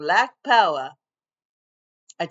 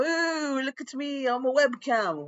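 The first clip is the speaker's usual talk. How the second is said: playful webcam voice; 8 semitones higher than usual. Pretend. Pretending to be a webcam.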